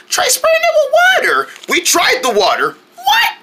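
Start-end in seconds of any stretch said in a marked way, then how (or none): 0.1-1.5 very high, frantic urging; urgent shout. Pretend. Urgent advice about the fire. 3.0-3.4 squeaky, very high surprise; shocked what. Pretend. Surprised reply.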